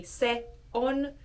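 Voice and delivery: separated words. Shown as a demonstration. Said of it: "so bink, bink".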